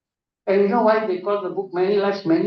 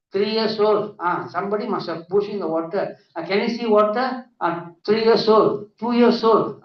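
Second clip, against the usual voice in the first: higher-pitched coaxing hypnotist; hypnotist counting back; 4 semitones higher than usual. Retold or imitated. Hypnotist regressing a woman scared of water, coaxing. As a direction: lead the patient gently back through the years.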